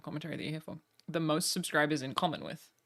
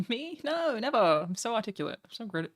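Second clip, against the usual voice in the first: high-pitched sarcastic denial; playful, sarcastic self-praise; mock innocence; 6 semitones higher than usual. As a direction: protest with fake modesty, starting high. Mock denial of being misunderstood.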